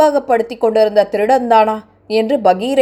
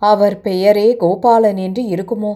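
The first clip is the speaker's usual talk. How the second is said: lightly voiced young woman, sorrowful and subdued; distressed young woman. Girl tells her sad story.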